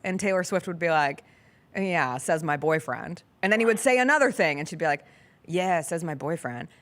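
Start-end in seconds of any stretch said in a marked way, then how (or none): 1.8-3.2 mock-dry reply. Imitating a singer's unimpressed reply to praise. 5.4-6.7 mock-dry reply. Repeats the singer's reply to more praise.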